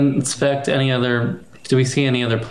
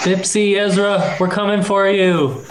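bear voice; 6 semitones higher than usual. Acted. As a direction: call to them as a bear. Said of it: "I shout out, of course, in Bear".

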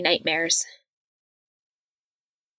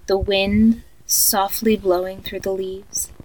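sleep story narrator. Acted. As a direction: lull a child to sleep, eerily calm. Creepy tape of guided sleep meditation.

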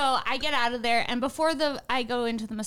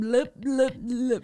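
fish noises; much slower than usual. Pretend. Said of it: "doing fish noises".

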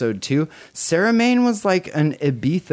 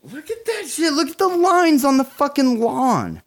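very high-pitched, giddy amazement; high, gushing excitement; excited squeal; 13 semitones higher than usual. Real, not acted. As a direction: squeal in awe at the sight. Raving over the castle lawn.

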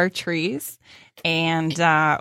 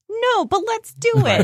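gleeful. Retold or imitated. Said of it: "And I was like".

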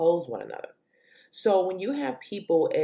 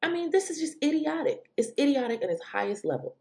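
exasperated disbelief; 11 semitones higher than usual. Real, not acted. Exasperated verdict on opponents.

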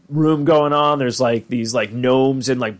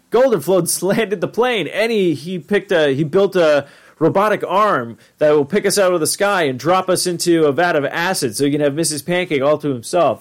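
Morty voice; 4 semitones higher than usual. Retold or imitated. Voicing Morty's worried theory.

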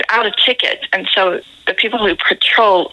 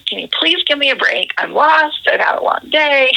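mildly pleading, higher pitch; retold plea, pitched up; explaining plea; 5 semitones higher than usual. Tourist begging the ticket officer for a break, mildly pleading. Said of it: "I'm trying to explain it to her".

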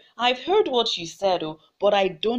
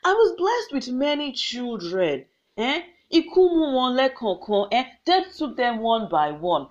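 crying out to ancestors; 3 semitones higher than usual. Acted. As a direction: beg the ancestors in anguish. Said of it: "she cried out to her ancestors".

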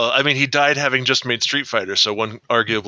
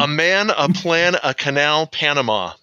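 slow demo; 3 semitones higher than usual. Shown as a demonstration.

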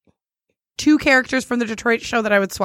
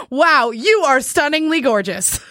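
gushing compliment; 3 semitones higher, 4 dB louder, slower than usual. Retold or imitated. Reading out a match's gushing compliment.

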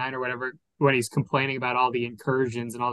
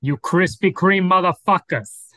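louder, slow movie line impression; 4 semitones higher, 6 dB louder, slower than usual. Shown as a demonstration. Taking a turn at the movie line, louder. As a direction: lean into it, slow and loud.

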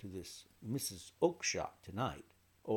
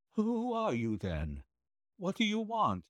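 high, frightened quaver; 12 semitones higher, 5 dB louder than usual. A narrator's reading. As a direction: voice a startled little man, pitched high. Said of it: "he asked in a quavering voice".

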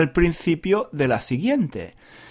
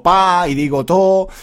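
Granada accent; 3 semitones higher, 5 dB louder than usual. Shown as a demonstration. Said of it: "hablo con acento de Granada".

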